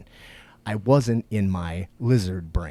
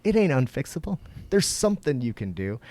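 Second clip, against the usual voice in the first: Sam Harris quote; 8 semitones higher, 4 dB louder than usual. Retold or imitated. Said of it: "good old Sam Harris says".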